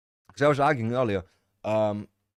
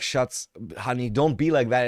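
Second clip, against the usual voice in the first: louder, pleading husband; coaxing husband; 3 semitones higher, 4 dB louder than usual. Retold or imitated. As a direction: sweet-talk her as he runs past. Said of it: "running past her like".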